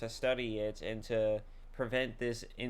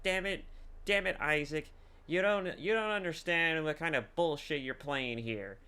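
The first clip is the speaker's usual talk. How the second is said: higher-pitched, mildly heated imitation; retold protest in a raised, exasperated voice; mock exasperated outburst; 5 semitones higher than usual. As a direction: act out a frustrated protest, pitched up. Retold angry outburst at Isaac.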